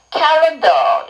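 "calendar" with the last vowel dragged, R softened; drawn-out final vowel. Shown as a demonstration. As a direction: stretch the ending of "calendar" instead of a crisp R. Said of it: "앞에 모음을 끌어주시면 됩니다". ("calendar" 끝 모음을 길게 끌어서)

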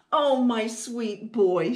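loud, fond exclamation; delighted cry. Acted. Mouse mom reaching out to Wilf, loving cry. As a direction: cry out to your child at full voice. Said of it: "she cried".

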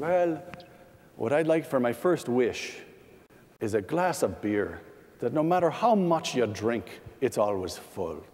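a hint of an Irish brogue, self-conscious; lightly put-on Irish accent for the joke's Irishman. Joke teller voicing the Irishman with a mild Irish brogue. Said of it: "I can't do an Irish brogue as well as Ronald Reagan could, but bear with me".

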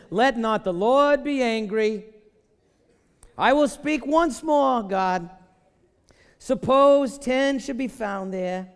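put-on high, slow, drawn-out Jewish accent. Preacher voices Abraham haggling with God, hammed-up Jewish accent. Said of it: "forgive me for my bad accent".

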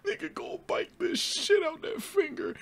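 high laughing disbelief; high giggly amazement. Real, not acted. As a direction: crack up while talking. Laughing at Owen biting finger.

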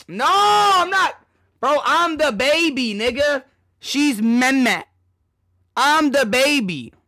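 high, loud mock outrage; indignant. Real, not acted. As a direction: set chat straight in disbelief. Indignant denial to chat.

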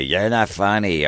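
high mocking girl voice; mock heckler yell. Girlfriend heckling the comic, mock yelling. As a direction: sneer it like a drunk heckler. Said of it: "the girl will be yelling at me".

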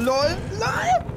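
squeaky high laughing. Real, not acted. Amused at survival.

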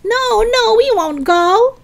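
high, loud defiant chant; shouting. Acted. Lisa refuses to clear out, shouting. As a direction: shout it back as a protest chant. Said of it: "Lisa shouted".

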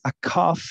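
"cough" said as "kof" with a rise; careful classroom model of "cough"; pronunciation model. Shown as a demonstration. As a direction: say "cough" with a long F sound. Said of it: "pilas con esta".

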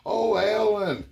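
high, slow mock swooning lady; swooning women. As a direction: coo the name like a smitten woman. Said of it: "all them women come up to him".

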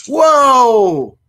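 loud, high ghostly whoa; spooky whoa. Pretend. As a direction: wail it like a ghost. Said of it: "It's like".

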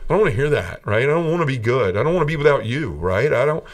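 mild mock anger at the comforting words; retold angry outburst. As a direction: refuse to hear it, voice rising in grief. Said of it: "and I was so angry".

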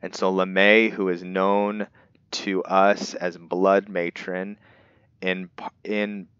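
put-on measured storybook narration of an old legend; book reading. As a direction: read it like an ancient tome, lightly dramatic. Reads the in-game book aloud.

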